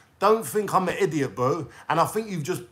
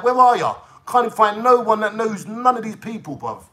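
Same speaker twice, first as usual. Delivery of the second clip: angry shout; 5 semitones higher, 5 dB louder than usual. Real, not acted. Calling out the troll.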